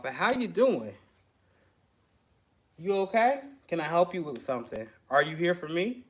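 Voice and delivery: mellow tone. Shown as a demonstration. Shop owner greeting new customers in a mellow tone. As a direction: greet them gently and politely. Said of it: "I'm talking like that. Mellow tone".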